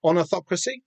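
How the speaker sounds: Elvish accent attempt breaking into a laugh, rising at the end; laughing try. Host laughing at his own Elvish accent, rising. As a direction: giggle through the Elvish word. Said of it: "like, an Elvish accent".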